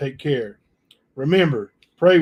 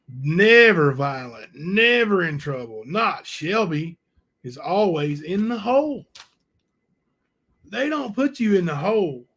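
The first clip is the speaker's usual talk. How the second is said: mock praise, then a pointed dig; sarcastic mockery. Real, not acted. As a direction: roll your eyes at the claim. Mocking the model prisoner claim.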